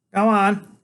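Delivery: put-on small boy waking his big friend for a quest; eager boy genius. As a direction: rouse him like a tiny herald. Freak voiced.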